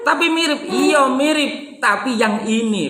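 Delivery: high, stress on tapi and ini; insistent stress. Shown as a demonstration. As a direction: insist it must be this one. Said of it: "nada ngotot".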